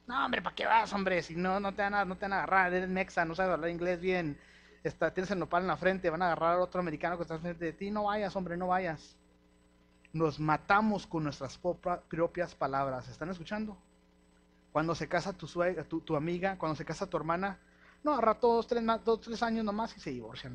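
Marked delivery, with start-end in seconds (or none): 0.1-9.2 mocking naysayer. Pastor imitating a congregation's doubting talk, scoffing naysayer. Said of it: "Pero no, ¿qué decimos?". 18.0-20.5 gossipy scoff. Retold or imitated. Pastor mimicking people who doubt a sister's marriage, sneering gossip. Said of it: "¿Quién conoce a alguien que habla así?".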